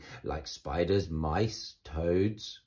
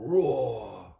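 voiced roar; 2 semitones higher, 4 dB louder than usual. A narrator's reading. Narrator imitates the roar.

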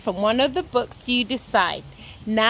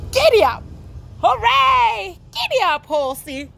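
whooping cowboy; 8 semitones higher, faster than usual. Acted. Ted riding his trusty horse, cowboy whoops. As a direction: urge the horse on excitedly. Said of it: "I am a Wild West cowboy".

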